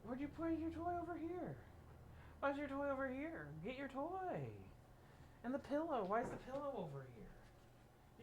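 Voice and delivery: high, lively dog-owner voice; pet-directed questioning. Real, not acted. Owner asking the dog about its toy, high pet-directed questioning.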